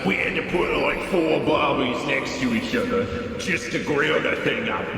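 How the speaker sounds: lightly done bad Australian accent. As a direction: tall tale in a weak Aussie accent. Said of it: "Please do bad Aussie accent".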